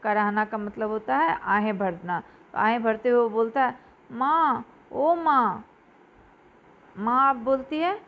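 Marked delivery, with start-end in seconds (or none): 4.1-5.6 moaning for mother. Acted. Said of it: "Mohan ज़ोर से कराह कर".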